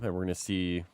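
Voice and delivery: hoarse, just-woke-up sick voice. Real, not acted. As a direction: talk through a cold, croaky. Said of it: "You sound like you just woke up".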